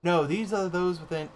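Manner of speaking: lightly voiced grave gatekeeper, ceremonial; a hint of a stately keeper of ruins; solemn gatekeeper. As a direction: announce it like an old guardian at a gate.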